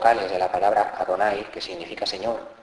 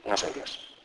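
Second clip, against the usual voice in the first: hushed self-talk; 6 dB quieter, slower than usual. Pretend. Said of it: "y decir".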